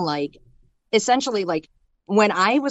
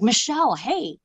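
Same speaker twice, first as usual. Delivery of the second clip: jovial greeting; 5 semitones higher than usual. Retold or imitated. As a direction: imitate a brother's jovial, casual greeting. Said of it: "like, jovial self".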